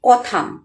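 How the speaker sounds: কথা set apart and weighted after a pause; stress on কথা. Shown as a demonstration. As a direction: lean on the word কথা alone. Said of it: "কথা শব্দটার উপরে জোর দিচ্ছেন".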